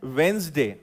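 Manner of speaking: वेंसडे as "wenz-day", no middle d; correct pron. Shown as a demonstration. Teacher repeating the model word: वेंसडे, wenz-day. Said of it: "जब वो ज है".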